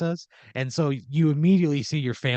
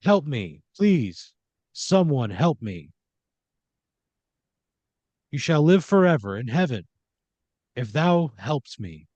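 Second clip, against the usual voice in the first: mock cry for help. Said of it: "he cried out".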